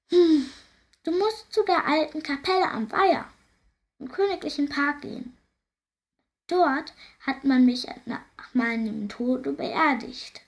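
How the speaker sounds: high, sighing voice of a cursed ghost; mournful ghost. Acted. Ghost lamenting his curse to the princess, high and mournful.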